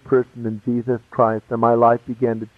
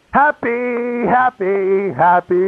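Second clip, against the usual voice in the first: higher, each happy lilting; giddy happiness; 7 semitones higher, much slower than usual. Real, not acted. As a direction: gush the word as if overflowing with joy. Describing his joy at church.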